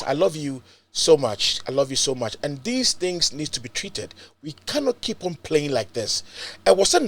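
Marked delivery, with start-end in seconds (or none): 0.0-2.4 tender thanks. Real, not acted. Host telling viewers he loves them, tender and soft. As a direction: murmur it fondly to the viewers.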